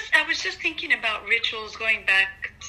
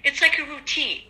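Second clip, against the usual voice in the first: corrupted glitchy audio. Real, not acted. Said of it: "Rochelle, you're cutting out".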